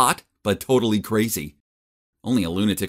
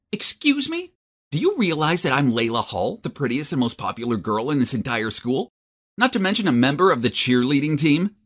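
put-on high, offended girl voice; indignant; 4 semitones higher than usual. Popular girl scolds the boy who turned her down, indignant. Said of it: "She scowled at me".

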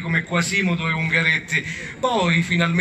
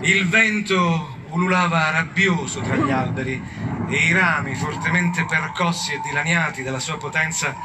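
measured storyteller with weighty pauses; unhurried, solemn storytelling; mock-epic narration. A narrator's reading. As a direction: narrate like a grave epic tale. Solemn story narration in a comic retelling.

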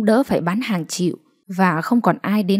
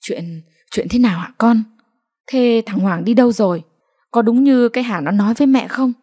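hurried questions; 3 semitones higher than usual. Acted. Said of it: "Bà Kính vội vàng hỏi".

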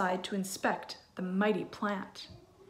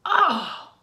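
higher, louder, slow, near tears; furious mother; 6 semitones higher, 7 dB louder, slower than usual. Acted. Mother scolding Jack for the worthless beans, tearful fury. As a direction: rage with a crack of crying. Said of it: "she was furious".

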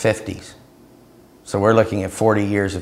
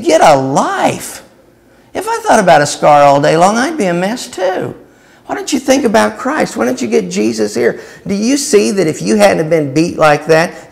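loud preacher's rebuke; mock scolding; 11 semitones higher, 4 dB louder than usual. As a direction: push him toward Jesus. Continues scolding, urging Jesus.

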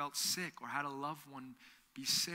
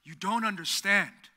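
very serious; 8 dB louder, slower than usual. Retold or imitated. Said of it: "looked at us very seriously".

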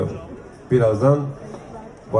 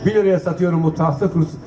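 brisk auction calling, price by price; auctioneer; 2 semitones higher than usual. Acted. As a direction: call out the bids like an auctioneer. S1 runs the auction calls. (mezat sunucusu gibi fiyat çağırma)

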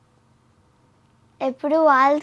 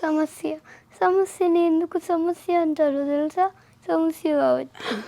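mock tearful delivery with a sob at the end; pretend crying; 2 semitones higher than usual. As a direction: act as if crying. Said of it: "ఏడుస్తున్నట్టు చెప్పు".

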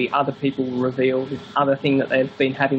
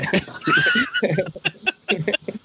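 high, hearty burst of laughter; big laugh. Real, not acted. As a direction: author cracking up after his Quran joke. Laughs at his own joke.

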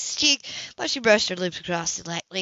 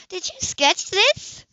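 high, slow, amazed question; admiring and surprised; impressed; 11 semitones higher, 3 dB louder, much slower than usual. A narrator's reading. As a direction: ask in happy wonder. Anna admiring the sketch.

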